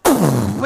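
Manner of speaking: whooshing mouth-made blast; imitated explosion. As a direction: blow out a rocket explosion. Imitates rocket exploding behind him.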